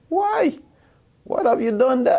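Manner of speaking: high, loud mock disbelief; a teacher's shocked question, voiced high; incredulous teacher. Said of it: "He said".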